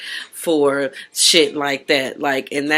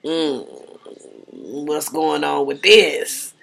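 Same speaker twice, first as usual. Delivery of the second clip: nosy gossip voice; 4 dB quieter than usual. Retold or imitated. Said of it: "I'm using this voice because it's so funny".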